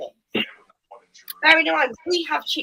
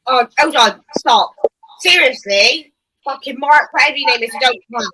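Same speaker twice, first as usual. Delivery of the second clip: angry; 6 dB louder than usual. Real, not acted. Host angrily cuts off caller.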